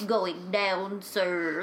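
lightly voiced droopy dog; a hint of the mopey cartoon dog; Droopy Dog impression. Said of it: "'cause droopy dog talks like this".

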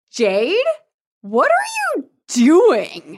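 high, drawn-out, baffled plea; a stunned boy calling her name; shocked Mark. Retold or imitated. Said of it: "And then Mark is like".

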